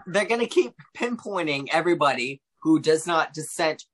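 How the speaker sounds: tipsy, slightly slurred talk. Real, not acted. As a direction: talk like you've had a few. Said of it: "I'm really drunk right now".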